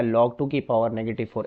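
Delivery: reads "log टू की पावर नेगेटिव फ़ोर" as a wrong way to say the question; the teacher shows students the wrong way to read "log टू की पावर नेगेटिव फ़ोर"; deliberately wrong reading. Shown as a demonstration. Teacher demonstrating a mistaken reading to students, read in an offhand way. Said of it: "मैंने जानबूझ के गलत पढ़ा है".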